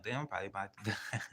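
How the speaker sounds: quick line breaking into a laugh; laughing disbelief. Retold or imitated. Storyteller recalling his fear of dying, laughing disbelief. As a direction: rush it and laugh before the last word.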